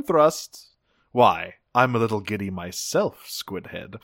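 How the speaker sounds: lightly voiced condescending commander; a touch of camp, needling an underling; lazy, campy villain. Host quoting Megatron talking to Thrust, lightly campy condescension. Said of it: "lazy, campy, just insulting all his men".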